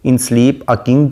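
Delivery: each word drawn out slowly; slow poem recitation. Shown as a demonstration. Teacher reads a sonnet line to the class, slow and solemn.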